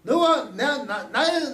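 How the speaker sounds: ordinary delivery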